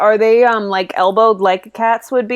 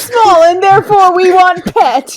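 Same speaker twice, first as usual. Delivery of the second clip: high, loud gushing squeal; excited squeal; 10 semitones higher, 7 dB louder than usual. Real, not acted. Player gushing to the GM about wanting one as a pet, high excited squeal. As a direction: squeal with delight at a tiny pet.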